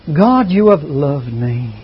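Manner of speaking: slow, low, droning scripture reading; imitating a dreary reader, slow and flat-toned; mocking a gloomy CD narrator; depressive monotone reading. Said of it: "it was depressive in the way it was read".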